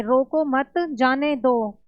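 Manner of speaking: "रोको मत" together, break, then "जाने दो"; pause after मत. Shown as a demonstration. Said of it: "इसमें बोला गया है कि".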